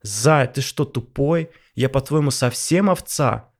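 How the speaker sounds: indignant wife. Acted. Wife snaps at husband.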